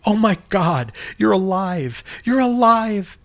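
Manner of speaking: high, loud joyful cry; overjoyed cry of relief; jubilant cry. Acted. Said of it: "cried out with jubilee".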